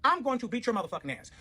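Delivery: high, heated taunting threats; defiant threat. Retold or imitated. Narrator daring the armed ex, defiant angry rant. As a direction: dare her to do it.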